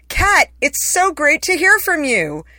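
high, slow, beaming read of his message; quoted cheerful reply. Retold or imitated. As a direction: read the reply as if glowing with delight. Quoting Sorkin's friendly reply.

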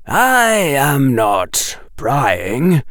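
professor praising his student darkly; menacing Quirrell. Acted. Quirrell voiced in audiobook.

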